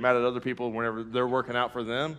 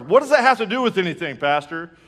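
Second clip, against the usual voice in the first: indignant objection; 4 semitones higher, 5 dB louder than usual. Retold or imitated. Retelling a congregant's indignant objection.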